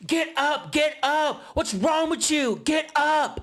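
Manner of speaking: high, insistent mock scolding; berating. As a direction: imitate a woman chewing someone out, far up in pitch. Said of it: "Natalie is berating Smiley".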